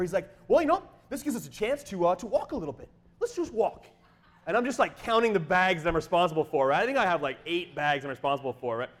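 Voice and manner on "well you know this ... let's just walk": high, breezy imitation of an optimist; chipper. Missionary pitching a walk past the jam, mock chipper. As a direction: chirp it like an unbothered trip leader. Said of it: "so he's all chipper".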